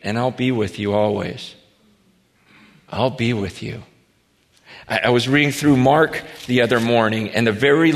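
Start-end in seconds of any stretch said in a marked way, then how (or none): 0.0-1.5 tender promise. Acted. Quoting Jesus' closing promise. 2.9-3.8 soft echo. Acted. Echoing the promise softly.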